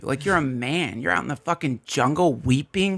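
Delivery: jab insults at the sobbing men; masseuse berating. Acted. Masseurs mocking weeping men in the jungle, half-hammed scorn. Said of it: "they're like, just like what you said".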